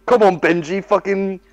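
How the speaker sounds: loud, high, urging him on; impatient yelling. Retold or imitated. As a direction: yell at him to go wild. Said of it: "I'm like".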